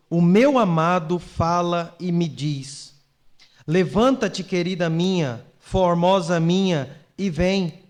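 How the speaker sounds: slow, projected Bible reading; scripture reading. Acted. Pastor reads the Song of Songs to the congregation, solemn scripture reading. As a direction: declaim the verse with measured, deliberate phrasing.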